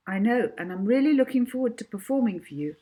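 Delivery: brisk, bright and eager; cheerful. Acted. Molly brightly answering the teacher, quick and cheerful. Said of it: "said Molly cheerfully".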